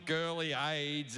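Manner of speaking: put-on soft girly. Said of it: "a soft, gentle".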